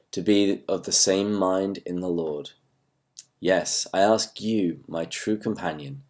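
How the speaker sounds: measured, deliberate Bible reading; scripture reading. Acted. Pastor reading Paul's letter to online viewers, measured scripture reading. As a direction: read the verse out to the listeners, unhurried. Reads the scripture text aloud.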